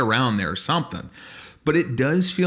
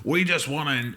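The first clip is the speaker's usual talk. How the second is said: mock Elon Musk voice; 2 semitones higher than usual. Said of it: "I don't know why I'm giving him that voice".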